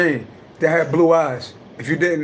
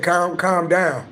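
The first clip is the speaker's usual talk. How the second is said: slow, drawn-out mock plea to calm down; much slower than usual. Quoting somebody telling him to calm down, slow mock plea. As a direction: stretch out calm down like a nervous onlooker. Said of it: "somebody said".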